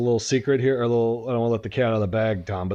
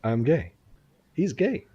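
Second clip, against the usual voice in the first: mock sing-song; 5 semitones higher than usual.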